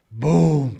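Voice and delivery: sudden drawn-out boom; imitated attic boom. Telling of noise from the attic, imitated boom. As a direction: drop a heavy boom from overhead. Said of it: "from the attic".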